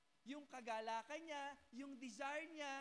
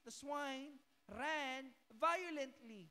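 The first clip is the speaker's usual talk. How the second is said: loud, very slow proclamation; forceful reading; 6 dB louder, much slower than usual. Acted. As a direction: stretch out "violently" with force. Preaching the verse forcefully. (malakas at mabagal na "violently")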